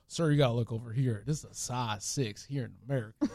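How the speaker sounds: put-on low-key country accent. Shoe salesman to Brazilian customers, country accent. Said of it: "I would do, like, the country accent".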